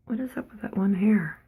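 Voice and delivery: unvoiced puzzled whisper; whispered aside. Real, not acted. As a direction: whisper it to yourself.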